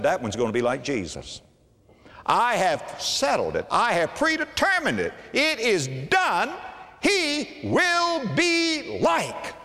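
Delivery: booming, slow declaration rising high; God's decree. Acted. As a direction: proclaim it as God's settled will. God's decree voiced in sermon.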